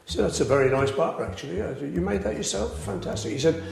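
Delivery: understated, straight-faced joke telling; deadpan. Real, not acted. Beatle telling a pub joke about Jones, deadpan. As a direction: tell the whole joke evenly, giving nothing away. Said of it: "deliver this joke with absolute deadpan perfection".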